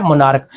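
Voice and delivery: "मोनार्क" repeated with the ch sounded as k. Shown as a demonstration. Teacher repeating "मोनार्क" for students, the ch as k. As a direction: give "मोनार्क" a clean k at the end. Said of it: "ये क्या है?".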